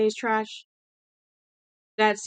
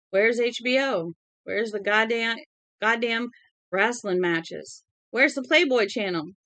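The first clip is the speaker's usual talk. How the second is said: put-on drunken Southern accent. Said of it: "his southern accent grew more pronounced, putting fur on his words".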